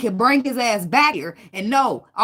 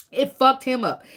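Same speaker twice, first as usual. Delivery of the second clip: It fucked him up, said higher and louder with FUCKED punched; louder, insistent restatement; emphatic repeat; 5 semitones higher, 4 dB louder, slower than usual. Shown as a demonstration. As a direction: hit FUCKED hard the second time.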